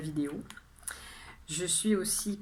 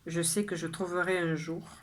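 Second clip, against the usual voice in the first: measured poem reading, phrase by phrase with pauses; poem recitation. Acted. Poet shares today's poem with viewers, measured recitation. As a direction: recite your poem clearly, letting each line settle. Rereads the poem a third time.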